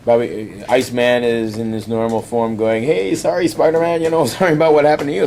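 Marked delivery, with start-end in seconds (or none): 2.8-5.2 mock sheepish apology. Iceman apologising to Spider-Man.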